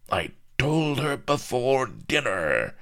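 high, gleeful cackled line; cackling. A narrator's reading. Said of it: "cackled Lardo".

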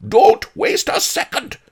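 high, urgent scream. A narrator's reading. Miser screams for his cook from inside, urgent. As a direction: scream for help in a frantic hurry. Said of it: "I heard him scream".

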